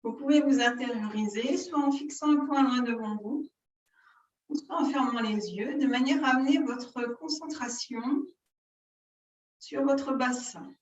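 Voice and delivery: measured yoga-teacher guidance with long pauses; unhurried breathing-exercise guidance; guided yoga instruction. Real, not acted. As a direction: lead the breathing exercise phrase by phrase, drawing out the key words.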